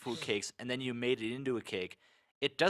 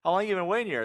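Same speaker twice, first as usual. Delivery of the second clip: raised, louder incredulous questions; retold astonishment; 7 semitones higher, 5 dB louder, faster than usual. Asking the guy at the front of the line, astonished. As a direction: act out amazed questioning, pitched up. Acting out his question to queuer.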